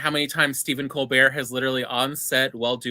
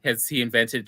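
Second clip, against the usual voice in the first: retold bafflement; 4 semitones lower than usual. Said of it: "we're like".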